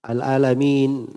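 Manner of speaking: Al-alamin said slowly with the final i; Al-alamin drawn out, stressing the kasrah; correct i-ending. Shown as a demonstration. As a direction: stretch out Al-alamin, ending clearly on -min. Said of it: "Alamin, bukan alamun".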